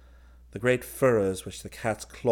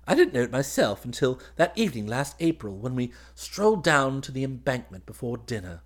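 higher, eager, louder voice; happy young officer; 5 semitones higher, 4 dB louder than usual. Acted. Groom recalling the evening stroll to his cousin, eager. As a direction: chatter happily in a lifted voice.

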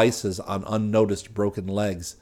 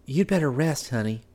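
cheerful wife; 5 semitones higher than usual. Acted. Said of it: "She tried to be cheerful".

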